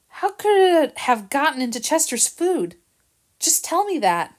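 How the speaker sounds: high, pleading and hurt; anguished plea. Acted. Jill at the door, begging Harrison for answers, anguished. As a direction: beg for an answer.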